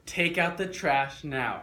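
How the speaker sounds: loud, slow command, each word hit hard. Shown as a demonstration. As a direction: order them to take out the trash. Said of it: "Say it like you mean it".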